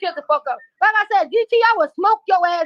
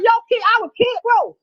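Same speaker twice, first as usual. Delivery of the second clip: angry shout; 5 semitones higher than usual. Real, not acted. Threatening Friday in a heated argument, shouting. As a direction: bark the threat as it flares up.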